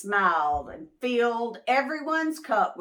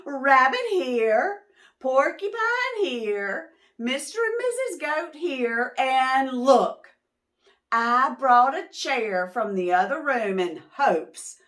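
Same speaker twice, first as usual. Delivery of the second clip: eager hostess; 3 semitones higher, 5 dB louder than usual. Acted. Missus Moose seats guests.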